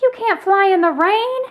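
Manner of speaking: high, loud warning; yelling on. A narrator's reading. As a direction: call it across the rainy field. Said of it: "Linus yelled at Snoopy".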